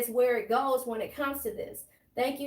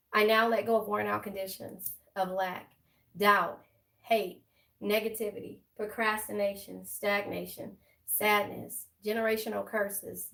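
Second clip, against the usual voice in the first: affirmation; 2 semitones lower than usual. Real, not acted. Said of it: "let's say my affirmation".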